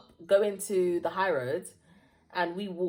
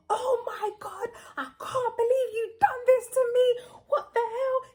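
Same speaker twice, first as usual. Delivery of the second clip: high wailing mock sobs; acting betrayed to her boyfriend, high mock wailing; fake hysterical crying; 4 dB louder than usual. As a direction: ham up heartbroken crying. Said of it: "I'm there hysterical".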